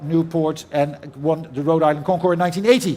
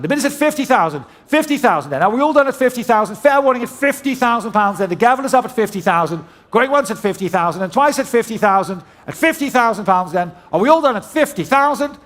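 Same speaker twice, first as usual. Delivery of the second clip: loud final call; 3 semitones higher, 3 dB louder than usual. Real, not acted. Final call before the gavel.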